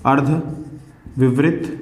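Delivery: अर्धविवृत drawn out very slowly, syllable by syllable; stretched-out teacher dictation. Shown as a demonstration. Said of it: "दूसरा है".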